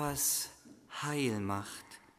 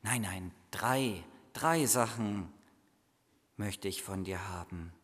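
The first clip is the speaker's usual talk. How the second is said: put-on calm him the way a patient child would; Jesus child soothing the boy, lower; 5 semitones lower than usual. Jesus child answers Michi.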